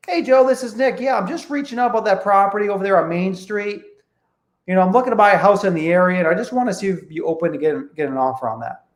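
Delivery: friendly cold-call opener. Shown as a demonstration. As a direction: call him like a neighbor you know. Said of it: "so there we go again".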